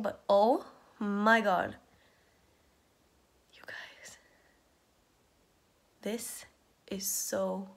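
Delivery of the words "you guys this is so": hushed whisper, then softly. Real, not acted. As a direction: whisper it in delight. Lying down on new mattress.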